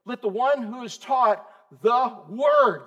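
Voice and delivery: slow, leaning on "word"; stress on word. Shown as a demonstration. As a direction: draw out "the word" and land on "word". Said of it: "The what?".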